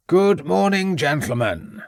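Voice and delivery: a lightly voiced Welsh headmaster, greeting brightly; a hint of Welsh lilt as he welcomes the detectives; loud Welsh voice. A narrator's reading. Headmaster greets the two detectives, lightly voiced Welsh welcome. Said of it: "said Edwards in his loud Welsh voice".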